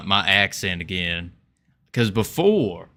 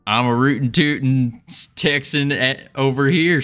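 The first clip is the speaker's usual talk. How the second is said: mock Southern accent; 3 semitones higher than usual. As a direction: ham up a cowboy Texan. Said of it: "Southerner here".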